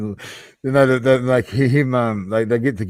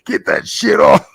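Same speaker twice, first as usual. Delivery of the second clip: higher, louder nagging wife voice; wife snapping; 5 semitones higher, 6 dB louder than usual. Retold or imitated. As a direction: mimic the wife telling him to turn it off. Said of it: "the wife just happens to walk past".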